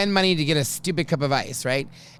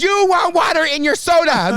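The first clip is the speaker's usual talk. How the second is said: high, louder, pointed question; loaded hint; 12 semitones higher, 7 dB louder than usual. Retold or imitated. Danny winking at Matt, high pointed hint. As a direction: lean hard on the hint. Hinting with winks.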